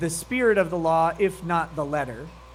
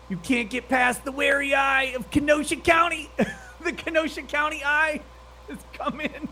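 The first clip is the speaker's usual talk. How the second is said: higher, excited taunting cry; hyped shout; 7 semitones higher than usual. Real, not acted. Streamer taunts the board over Kenosha, excited shout. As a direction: crow it out like a victory chant.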